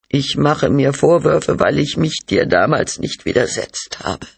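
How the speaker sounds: high, thin self-reproach; regretful wife. Acted. Wife regrets not standing up to husband, pained and high. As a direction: pitch it up, full of regret.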